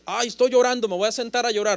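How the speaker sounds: imitando a un llorón que se rinde, más fuerte; quejido burlón. Retold or imitated. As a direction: burla de quien se sienta a llorar. Mocking a self-pitying believer. (voz quejumbrosa burlona y fuerte)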